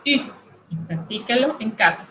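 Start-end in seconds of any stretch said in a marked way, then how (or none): 0.1-0.3 U said with rounded lips pushed forward, as French u; U: tongue as for I, lips rounded; U, tight rounded French vowel. Shown as a demonstration. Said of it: "eso se pronuncia".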